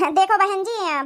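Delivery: slow words through a laugh. Acted. Groom's mother laughs to the bride's family, slow and laughing. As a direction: chuckle as you start.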